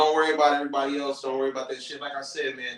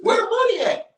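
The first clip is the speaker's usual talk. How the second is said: greedy demand; 5 dB louder than usual. Retold or imitated. Fighting over dead man's things.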